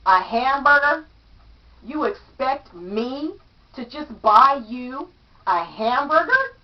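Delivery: scornful incredulous question; attitude. Acted. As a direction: scoff at the request. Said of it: "with an attitude".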